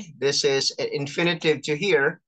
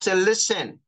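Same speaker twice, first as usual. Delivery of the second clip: reading scripture; 5 semitones higher than usual. Shown as a demonstration. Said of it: "This is James one nineteen".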